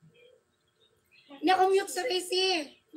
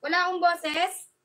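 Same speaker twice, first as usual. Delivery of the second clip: disbelieving question, pitched up at the end; incredulous. Real, not acted. Streamer doubting viewers who hear no voice, incredulous. Asks again about silent mic.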